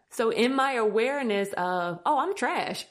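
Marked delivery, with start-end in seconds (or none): 2.1-2.9 mock self-disgust. Retold self-criticism, then laughs.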